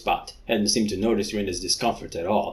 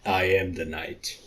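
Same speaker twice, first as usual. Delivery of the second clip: mock Batman; 3 semitones lower, 4 dB quieter than usual. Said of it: "you can call me Batman".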